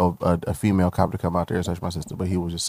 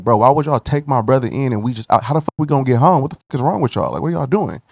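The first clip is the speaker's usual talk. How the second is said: raised, higher indignant protest; retold anger; 6 semitones higher than usual. Kids left stranded protesting to police, mock indignant. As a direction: push back at the cops, pitched up. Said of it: "So we just like".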